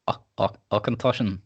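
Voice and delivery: halting, unconvincing Scottish accent; attempted Scottish accent. Shown as a demonstration. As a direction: feel your way into a weak Scottish accent. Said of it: "try and say it Scottish".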